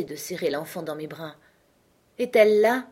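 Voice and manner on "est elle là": breathless, higher, louder frightened question; panting fear. A narrator's reading. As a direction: gasp it out in terror. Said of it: "Miles haletait".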